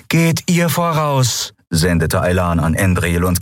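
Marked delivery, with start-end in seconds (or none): 0.1-1.5 higher, slow, composed; Aylan's calm voice. Acted. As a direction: say it calmly and firmly. (ruhige, gefasste Stimme)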